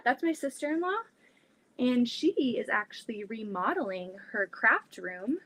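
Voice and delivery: ordinary talk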